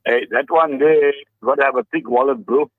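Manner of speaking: ordinary delivery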